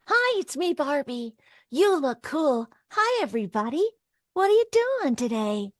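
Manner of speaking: high, sweet doll voice; a little girl's best-friend doll, pitched well up; Barbie. Acted. Actress auditions at the studio microphone, high sweet doll voice. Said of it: "just do for, for me what you did on the phone".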